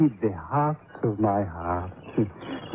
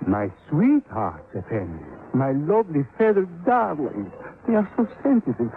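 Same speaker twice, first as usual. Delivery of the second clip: cooing tenderly; 5 semitones higher than usual. Acted. Sailor doting on his caged birds, cooing. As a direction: fuss over them like darling pets.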